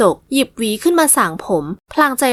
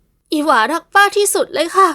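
higher, slow loving voice; tender young niece; 6 semitones higher, slower than usual. Acted. Niece hugging her aunt, slow and tender. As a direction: pour your heart out to her aunt.

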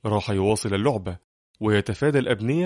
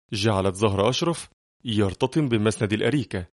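ordinary delivery

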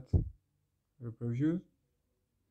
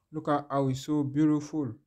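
excited admiration; 2 semitones higher, 6 dB louder than usual. Real, not acted. Admiring the photo.

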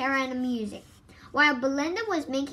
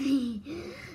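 little nervous laugh. A narrator's reading. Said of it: "with a little laugh".

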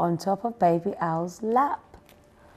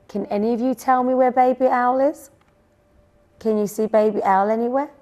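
high, quick questioning; puzzled searching; 5 semitones higher, 5 dB louder, faster than usual. A narrator's reading. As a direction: ask around urgently, voice lifted. Chick searches for missing owl.

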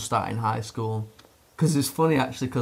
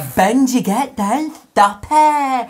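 high, loud imitation of a dog owner; mock-yell a command at a misbehaving dog; shouting at dog; 11 semitones higher, 7 dB louder, much slower than usual.

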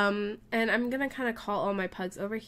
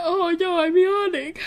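dismayed squeal; 7 semitones higher, 8 dB louder than usual. Real, not acted. Sudden dismay while petting pug.

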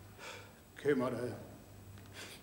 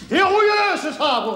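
indignant repeat; 8 semitones higher than usual. Acted. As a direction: repeat it like an indignant old man.

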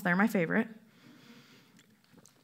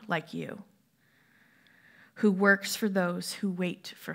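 solemn reading of the passage; measured scripture reading. Acted. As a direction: read the psalm-like verses with weight. Reads scripture aloud.

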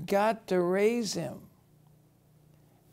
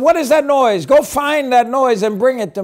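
a hint of a princess giving orders, a little higher; commanding princess; 7 semitones higher, 7 dB louder than usual. Pharaoh's daughter sends her servant after the noise, lightly voiced commanding princess. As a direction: call out to the servant, lightly voiced royal lady.

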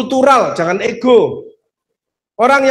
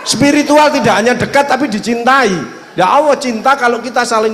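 louder, higher preaching call; preaching shout; 5 semitones higher, 4 dB louder than usual. Real, not acted. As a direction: proclaim it to the whole hall. Preacher raising voice to crowd.

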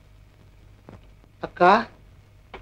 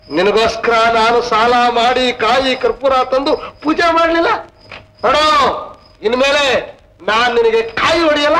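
complaining to God; 3 semitones higher than usual. Acted. Scolding God in frustration.

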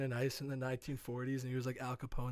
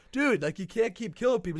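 mock scolding hero; 7 semitones higher, 7 dB louder than usual. Heroes scold Tony.

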